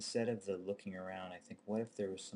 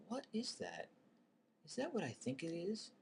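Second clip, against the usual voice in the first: high worried disbelief; nervous suspicion; 12 semitones higher than usual. Retold or imitated. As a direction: dread the answer, voice up high. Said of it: "the initial".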